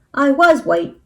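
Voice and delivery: loud, high, indignant protest; squawking rooster. A narrator's reading. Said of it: "acked the rooster".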